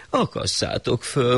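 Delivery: high, slow royal order; a lightly voiced shah giving the order; slow high decree; shah commanding.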